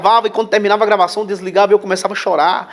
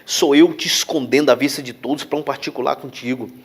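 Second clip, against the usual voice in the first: hushed, tender voice of the Holy Spirit, sinking to a whisper; voice of God, gently; 5 semitones lower than usual. Retold or imitated. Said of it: "eu senti o Espírito Santo falar no meu coração".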